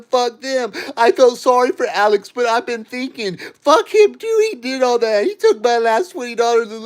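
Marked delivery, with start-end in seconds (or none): 3.6-6.1 angry outburst. Real, not acted. Turning on Alex who laughed at him, furious outburst. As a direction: spit it out in fury.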